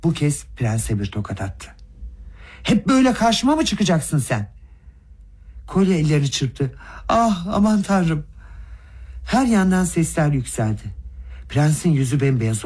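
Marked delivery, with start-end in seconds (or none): 2.6-4.5 tiz perdeden öfkeyle çıkış; bağırmadan yükselen öfkeli hesap sorma; öfkeli bağırış. A narrator's reading. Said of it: "kudurmuş gibi bağırarak". 7.1-8.2 yüksek, ağır, uzatılmış feryat; dehşetle iç çeker gibi uzat; dehşetli ünlem. A narrator's reading. Dehşete düşen kişinin ünlemi.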